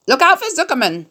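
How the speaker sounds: very high honking yell; yelling gander. A narrator's reading. Gander calling Wilbur over, high honking yell. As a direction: honk it out like a gander. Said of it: "yelled the gander".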